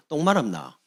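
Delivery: mock blunt Gyeongsang question; Gyeongsang dialect. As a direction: imitate a Gyeongsang local needling someone. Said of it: "경상도". (경상도 사투리로 툭 묻듯)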